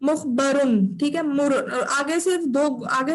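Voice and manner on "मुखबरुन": मुखबरुन ending in a clear "-un"; tanween ending. Shown as a demonstration. Teacher correcting a student's dropped ending, मुखबरुन with final "-un". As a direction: close मुखबरुन on a sounded n after u. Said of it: "दो पेश हैं आगे।".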